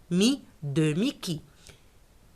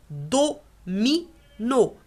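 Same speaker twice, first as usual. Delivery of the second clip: slow syllabified; 3 semitones higher, much slower than usual. Shown as a demonstration. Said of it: "teacher slows the word".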